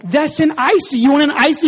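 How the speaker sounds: high, loud retold parent's outburst; exclaimed realisation. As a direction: blurt it out as the puzzle finally clicks. Parent finally understands crying child.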